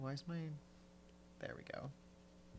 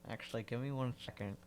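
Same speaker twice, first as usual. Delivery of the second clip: pen in mouth; faster than usual. Real, not acted. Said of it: "I just put my pen in my mouth".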